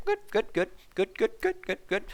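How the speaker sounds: quiet little aside of approval; muttered approval. Pretend. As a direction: say it under your breath, like ticking it off. Self-satisfied aside after fight remark.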